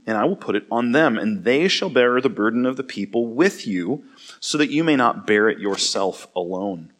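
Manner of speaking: steady, measured Bible reading; scripture reading. Acted. Pastor reading Numbers to his church, measured and clear. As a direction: read the passage to the congregation.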